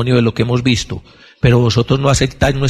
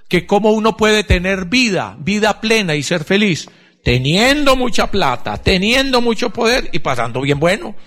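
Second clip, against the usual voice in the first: raised, mocking voice of the world; mock worldly voice; 8 semitones higher than usual. Preacher mocking the world's promise of happiness, raised voice. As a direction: mimic the world's empty promises.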